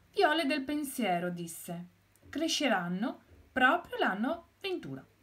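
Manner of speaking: lightly voiced cheerful hen; pleased hen. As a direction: proudly show the new flowers. Hen planting pansies, pleased.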